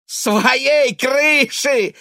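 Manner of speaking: протяжный высокий громкий выкрик; выкрикни с безумной насмешкой; безумный крик. A narrator's reading. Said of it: "крикнул он с безумным смехом". (сын выкрикивает слова матери, громко и медленно)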